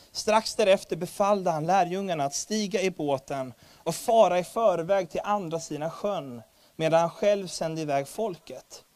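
a lifted, earnest Bible reading; scripture reading. Acted. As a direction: read the gospel passage out to the congregation. Reads Matthew 14 aloud. (högtidlig bibelläsning)

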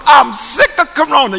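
loud slogan for the chat; rallying slogan. Pretend. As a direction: call it out like a chant. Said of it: "write it in the chat book".

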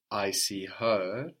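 slow, weighted "her"; stress on HER. Shown as a demonstration. Teacher explaining an emphatic meaning, stress on "her". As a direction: stretch the final "her".

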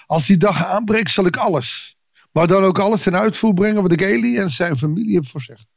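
measured, formal Bible reading voice; lightly formal reading from the pulpit; scripture reading. Acted. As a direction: read the passage to the congregation with calm weight. Reads Bible passage aloud.

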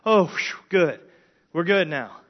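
mock relieved exhale, then settling; sigh of relief. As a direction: imitate relief with a little phew. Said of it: "breathe this huge sigh of relief".

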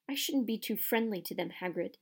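understated cold disapproval. Acted. Caretaker cautions groundskeeper about students, coldly. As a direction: keep it cool and disapproving. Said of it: "said Filch coldly".

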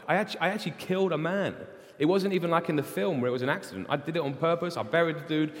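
protesting Moses. Retold or imitated. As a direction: pile up the reasons you can't go. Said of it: "he says, Who am I?".

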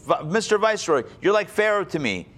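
bow to the viceroy with your voice; a light touch of Judah pleading; mild deferential plea. Acted. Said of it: "he didn't know it was Joseph".

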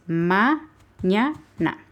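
slow, separated syllables of mañana. Shown as a demonstration. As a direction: break mañana into "ma, ña, na". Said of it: "para explicarles los de la sílaba".

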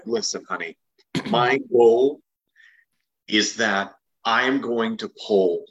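wry, slow deadpan comedian; Kathleen Madigan. Retold or imitated. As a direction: drag it out, dry and weary. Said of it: "love the comedian Kathleen Madigan".

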